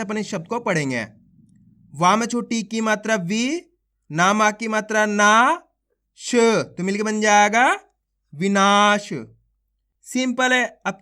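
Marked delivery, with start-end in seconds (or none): 1.9-9.1 stretched-out syllable calling, each syllable punched; phonics drill. Shown as a demonstration. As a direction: sound out each syllable slowly for children, then join them. Sounding out syllables into words.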